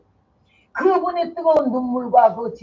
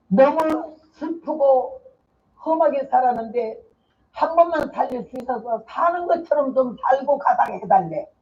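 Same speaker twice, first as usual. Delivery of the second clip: tearful prayer; 3 semitones higher than usual. Retold or imitated. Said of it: "울면서 기도를 하는데요".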